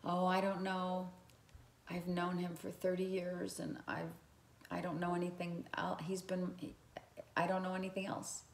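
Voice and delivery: soft, unsure, trailing off in doubt; hesitant fear. Pretend. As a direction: fumble the words as if frightened to leave. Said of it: "You're in this mindset".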